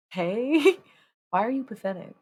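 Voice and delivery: laughing mock. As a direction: laugh through a teasing reply. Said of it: "It's like".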